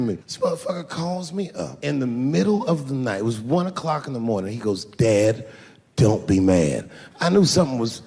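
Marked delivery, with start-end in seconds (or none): 4.8-6.9 put-on low, louder pleading teen; nervous son. Teenage son calling dad at 1 a.m., low pleading. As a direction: brace the dad for bad news.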